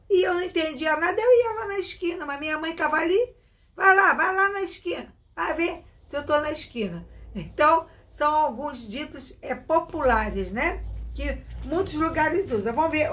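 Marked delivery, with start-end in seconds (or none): 3.8-7.1 put-on mother sending child off. Her mother sends her to the corner, higher and insistent. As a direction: urge the kid out to the corner.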